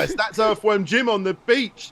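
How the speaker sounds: high, excited re-enacted brainwave; freaking out. Guest relives an editing brainwave, excited and high. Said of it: "I just started freaking out".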